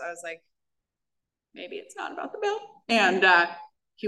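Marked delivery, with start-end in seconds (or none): 1.6-2.6 small realization. Retold or imitated. Realization after crying two hours.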